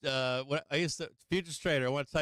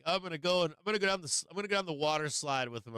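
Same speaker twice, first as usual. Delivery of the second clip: higher, lightly voiced eager wife; 4 semitones higher, faster than usual. Husband mimics his wife wanting the water slide, eager and higher. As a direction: play the keen mom bursting to join in. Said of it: "My wife will be like".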